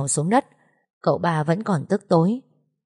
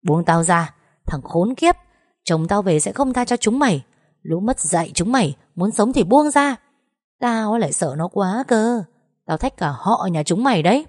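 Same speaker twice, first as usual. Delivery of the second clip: furious shouting that peaks higher on the threat; defiant yelling; 3 semitones higher than usual. Acted. Woman pinned by thugs, threatening them, furious yell. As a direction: scream at them to let go. Held down, screaming at attackers.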